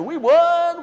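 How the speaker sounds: loud, high celebratory shout; triumphant cheer. Acted. Monkeys high-fiving after the fight, triumphant cheer.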